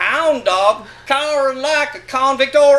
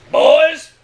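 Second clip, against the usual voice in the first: put-on raised, louder call of boys; 4 semitones higher, 6 dB louder than usual. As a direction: call the movers in, a touch loud. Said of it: "he called us".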